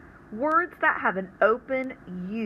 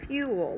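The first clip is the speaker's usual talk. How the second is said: fuel with FU higher; stress on the first syllable; 6 semitones higher than usual. Shown as a demonstration. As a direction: say fuel, lift FU. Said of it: "fits that rule".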